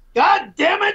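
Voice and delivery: high-pitched shouted yell. Demanding that the stream host sit down and do this, yelling. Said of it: "Why are you yelling?".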